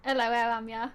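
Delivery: relaxed Black Country greeting; easy Black Country demonstration; Black Country accent. Shown as a demonstration. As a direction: model a Black Country hello for a learner. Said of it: "Yeah, nearly".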